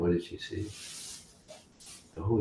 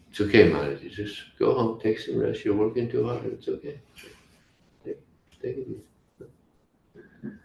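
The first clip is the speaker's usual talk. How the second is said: higher, gently placating voice, softening at the end; soothing reassurance; 5 semitones higher than usual. Acted. Mother Yasoda tells gopi to go home and rest, soothing.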